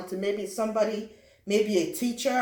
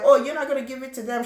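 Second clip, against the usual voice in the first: taunting classmate; 4 semitones higher, 5 dB louder, faster than usual. Retold or imitated.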